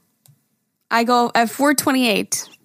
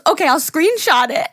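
laughing; 5 semitones higher than usual. Retold or imitated. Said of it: "She goes".

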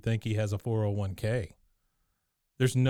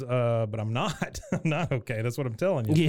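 laughing. Retold or imitated. Retold quote, laughing through.

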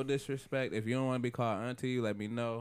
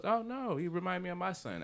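high-pitched impression of a singer; 10 semitones higher than usual. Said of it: "she was like".

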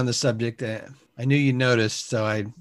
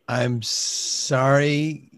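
slow, non-apology apology; fake apology; 2 semitones higher, slower than usual. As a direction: apologize without meaning it. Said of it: "That's some passive aggressive American shit".

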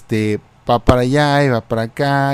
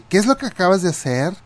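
reclamo agudo, apenas gritado; grito imitado; 2 semitones higher than usual. Retold or imitated. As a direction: imita una exigencia a gritos, sin gritar mucho. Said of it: "le empieza a gritar". (gritos de clienta exigente, a media voz)

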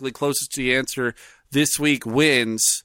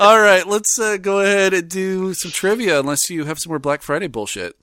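agitated; 5 semitones higher than usual. Real, not acted. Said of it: "I'm getting worked up".

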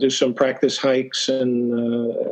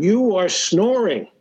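slow, higher mock Eastern European accent; lightly put-on Eastern European accent, said slowly; thick Eastern European accent; 5 semitones higher, slower than usual. Jealous husband wakes the snorer, in a thick Eastern European accent. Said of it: "in a, a very thick Eastern European accent".

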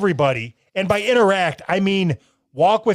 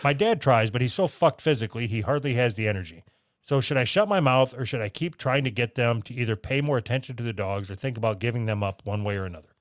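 lower, even reading voice; letter read-aloud; 6 semitones lower, 4 dB quieter than usual. Real, not acted. Host reading a listener's letter to co-host, read-aloud. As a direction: read the letter out in a low, measured tone.

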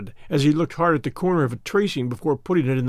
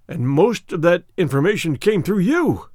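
a mild cry of dismay; understated dismayed outburst; cried out; 2 semitones higher, 3 dB louder than usual. Acted. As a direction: prisoner realizing his betrayal, mildly crying out. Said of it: "he cried".

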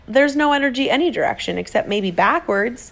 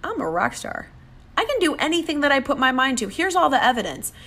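self-affirmation; 5 semitones higher than usual. Retold or imitated. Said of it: "I started the message of".

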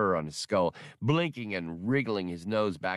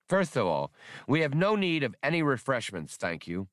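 higher, prim and officious creature voice; fussy skip tracer; 6 semitones higher than usual. A narrator's reading. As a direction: lay down the facts, stiffly polite. Spray's voice in the story.

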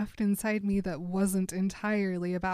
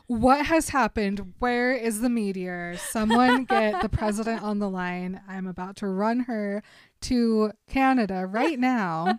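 mock panic; 6 dB louder than usual. Edward panics over her fake choke.

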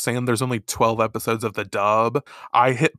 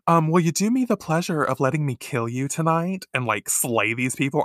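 polite assassin; 4 semitones higher than usual. Retold or imitated. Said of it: "to see her switch to be like".

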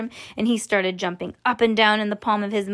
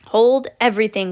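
louder, urgent call to halt everything; excited cry; 5 dB louder than usual. Acted. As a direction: call it out like an order. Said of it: "cried Mister Wonka".

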